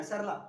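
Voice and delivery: सरला with रा said light, in the breath of सा. Shown as a demonstration. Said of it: "सा की ही आवाज में रा को बोल देना है". (रा पर जोर नहीं, हल्का सा)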